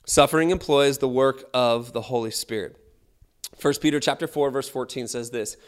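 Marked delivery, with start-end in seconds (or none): 0.1-2.8 louder restatement. Shown as a demonstration. Preacher repeating to congregation, louder restatement. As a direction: punch SUFFERING louder, falling at the end.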